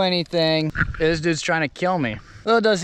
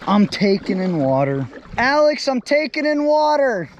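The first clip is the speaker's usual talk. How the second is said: panicked yelling; 9 semitones higher, 4 dB louder, slower than usual. Real, not acted. Sinking on air mattress, panicking.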